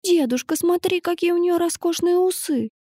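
put-on high, delighted little girl voice; little girl chirping. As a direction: chirp it like an excited small girl. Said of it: "прощебетала девочка".

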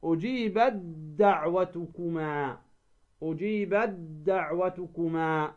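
slow "أجيبت دعوتكما", ت merged as "ujibad-da'watukuma"; merged recitation. Shown as a demonstration. Teacher gives a second example, merged recitation. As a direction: draw out "أجيبت دعوتكما" with a doubled d. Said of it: "تدغم التاء ماذا؟ بالدال".

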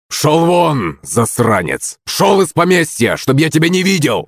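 high-pitched angry outburst; furious order. A narrator's reading. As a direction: throw the drunkard off the estate. Master throws servant out. (гневный окрик)

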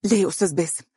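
nervous no into the phone. Acted. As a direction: refuse him anxiously. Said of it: "سمعتها تقول".

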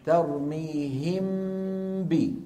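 ترميهم ب said slowly, lips closed once on م and ب with nasal hum; very slow tajweed demonstration; ikhfa demo. Shown as a demonstration. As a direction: hum the م of ترميهم straight into ب without opening the lips. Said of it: "كم طبقة طبقت الشفتين".

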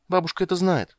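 put-on high, loud childish voice; a girl bursting to tell; excited little girl. Ciri to Geralt, high and eager. Ciri's voice.

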